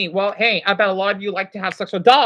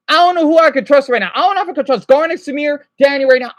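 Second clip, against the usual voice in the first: stressed outburst; 3 semitones higher, 5 dB louder, faster than usual. Real, not acted. Stressed outburst about trust.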